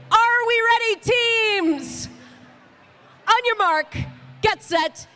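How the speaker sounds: rally the teams to the start line; race start call. Real, not acted.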